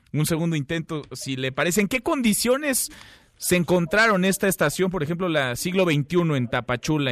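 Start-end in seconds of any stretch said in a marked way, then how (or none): 1.8-7.1 to someone hard of hearing. Real, not acted. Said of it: "le voy a hablar un poquito más fuerte".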